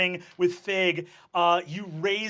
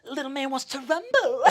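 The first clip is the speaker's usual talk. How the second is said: mocking taunt; 4 semitones higher, 4 dB quieter than usual. Biker taunts fighter.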